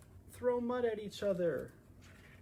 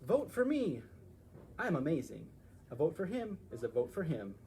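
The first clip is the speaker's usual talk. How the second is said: bragging donkey; 3 semitones lower than usual. Acted. Donkey campaigning.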